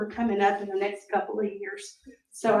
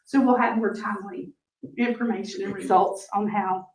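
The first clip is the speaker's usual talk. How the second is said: losing her voice, hoarse and worn; strained, fading sick voice; 3 semitones lower than usual. Real, not acted. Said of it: "I'm losing my voice".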